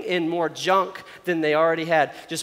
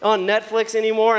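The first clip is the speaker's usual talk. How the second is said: higher-pitched whiny griping, played up; raised, exaggerated grumbling; mock upset complaining; 3 semitones higher, 3 dB louder than usual. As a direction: imitate a fed-up complainer. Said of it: "I'm so upset".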